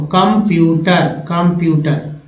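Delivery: slow down on कंप्यूटर; slow sounded-out word. Shown as a demonstration. Teacher sounding out कंप्यूटर for students. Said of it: "सीएन को बोलते हैं कम".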